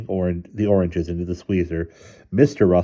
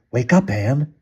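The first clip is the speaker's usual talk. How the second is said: higher urgent warning; raised, urgent wake-up call; scary, urgent; 6 semitones higher, 4 dB louder than usual. A narrator's reading. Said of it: "making her voice scary and urgent".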